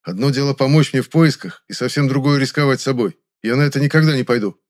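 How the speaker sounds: a man forbidding her, annoyed; irritated lecture. A narrator's reading. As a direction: lay down the law. Hero continues irritated refusal.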